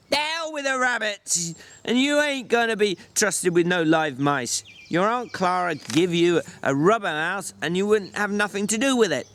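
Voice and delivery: put-on tired older friend, firm; gruff George voice. George retorts.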